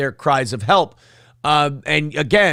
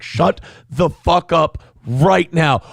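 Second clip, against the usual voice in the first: slow, clipped warning through the teeth; a lawyer hushing his client, slowly; stern lawyer; slower than usual. Retold or imitated. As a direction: shut him down slowly and firmly. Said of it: "And the lawyer's like".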